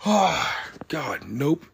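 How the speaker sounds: strained voice mid-stretch; stretching while talking. Real, not acted. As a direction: talk through a big stretch. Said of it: "Sorry, I'm stretching".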